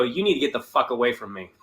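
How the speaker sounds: low, soft and fast threat; comic cutting off a heckler, low quick threat; low menacing warning. Retold or imitated. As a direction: snap it off quick and cold. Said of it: "before I go".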